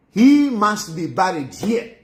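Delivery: slow, firm and final, each word set down; emphatic, categorical. Retold or imitated. President telling the envoy, slow emphatic insistence. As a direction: lay it down like a ruling. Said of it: "was emphatic, was categorical".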